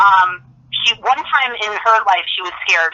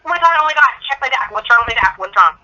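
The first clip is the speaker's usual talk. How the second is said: higher-pitched retold panic, not a full scream; mock pained scream; 5 semitones higher than usual. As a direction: imitate crying out in pain, held back. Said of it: "I would scream in, like, pain".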